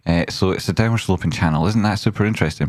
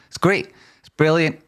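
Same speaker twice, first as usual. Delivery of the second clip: gushing; 10 semitones higher than usual. Real, not acted. Gushing over babies.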